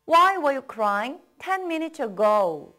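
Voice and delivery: slow, even drill pace; slow model reading. Shown as a demonstration. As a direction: say it slowly, leave room to repeat. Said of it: "따라 읽어보세요".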